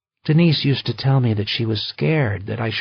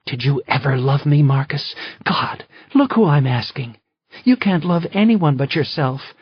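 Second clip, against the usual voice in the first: high, loud furious accusations; fury; 7 semitones higher, 6 dB louder than usual. Acted. Wife furious at her husband, high and loud. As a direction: hurl every question at him in rage. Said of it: "Her face was twisted in fury".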